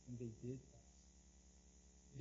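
whispered, slow and low; hushed whisper. Real, not acted. Preacher telling his congregation the disciples kept faith, hushed whisper. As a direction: drop to a near whisper. Solemn point about disciples fasting.

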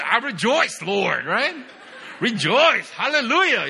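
high, bright exclaiming of rejoice and hallelujah, pitch climbing; mock joyful praise. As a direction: ham up a happy worshipper shouting hallelujah.

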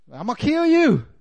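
hammed-up murderous king; mock threat. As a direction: throw the threat out like a crazed king. Saul threatening David, retold.

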